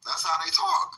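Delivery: high sing-song Atlanta twang; lightly done Atlanta accent; mock Atlanta accent. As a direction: toss it off in a put-on Atlanta accent.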